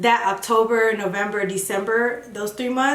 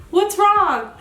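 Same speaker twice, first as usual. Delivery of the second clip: mom's higher, louder, concerned question; worried mom; 10 semitones higher, 4 dB louder than usual. Retold or imitated. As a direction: voice the mother asking with alarm. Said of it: "She's like".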